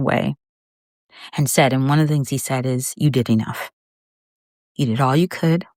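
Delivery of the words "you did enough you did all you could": imitating a son's loving reassurance; gently and slightly low, as tender retold words; compassionate reassurance. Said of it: "just the most compassionate, loving, reassuring way".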